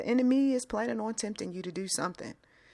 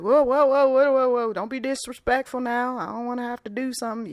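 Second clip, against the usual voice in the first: put-on Southern accent; 4 semitones higher than usual. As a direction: cut in sharply with a light Southern accent. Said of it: "I used a Southern accent".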